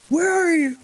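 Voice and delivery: high-pitched mock-impatient wail; exasperated demand. Telling friends about texting Minnie, high and impatient. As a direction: squeal it like an impatient text. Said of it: "I was just like".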